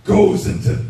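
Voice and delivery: demonstrated strained shout; throaty shouting. Shown as a demonstration. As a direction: push it hard into the throat. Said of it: "every time I shout".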